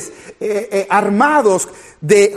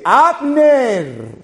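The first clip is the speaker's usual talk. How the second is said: retelling David's taunting call to Abner, mildly raised; calling out across the hills; 2 semitones higher, slower than usual. Retold or imitated. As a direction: call out to Abner from far off, half-voiced. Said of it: "David empieza a gritar".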